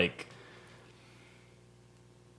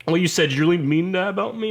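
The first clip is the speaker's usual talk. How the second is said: imitated higher-pitched accusing teacher; offended professor; 7 semitones higher, 4 dB louder than usual. Professor confronting student after his speech, mimicked offence.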